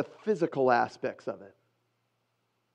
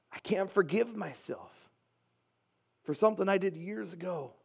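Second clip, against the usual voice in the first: softer, halting admission of guilt; quiet confession; 7 dB quieter than usual. Acted. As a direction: confess it softly, with a pause midway. Voicing a painful confession.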